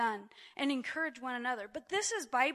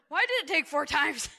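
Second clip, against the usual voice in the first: laughing; 5 dB louder than usual. Real, not acted. Echoing a friend's odd question, laughing. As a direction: repeat it through laughter, a little louder.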